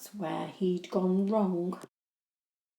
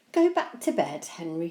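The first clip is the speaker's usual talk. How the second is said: stern; 5 dB louder than usual. Acted. Mum orders Henry.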